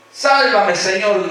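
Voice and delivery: high, loud cry for rescue; shouted plea. Acted. Pedro sinking in the waves calls to Jesus, shouting. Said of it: "gritó".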